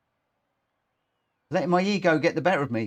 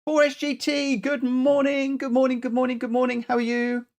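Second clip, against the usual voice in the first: high, stretched-out cheery hello; sing-song greeting; 9 semitones higher than usual. Acted. Greeting a chat viewer in a high sing-song voice.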